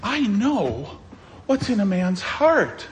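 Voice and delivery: smug claim, lightly hammed up; mock arrogant. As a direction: imitate an arrogant psychologist. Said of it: "Oh, the arrogance of psychotherapy and psychology".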